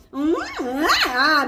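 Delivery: savouring hum opening into "ah"; hum, then release an appreciative ah; demonstrated relishing sounds. Shown as a demonstration. Coach shows how it sounds, relishing. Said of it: "dia bunyi macam tu".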